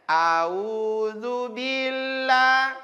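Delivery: slow a'udzu billah with the billah run together, dropping letters; common mistake. Shown as a demonstration. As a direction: model the wrong a'udzu billah, slurred. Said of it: "Kesalahannya biasanya".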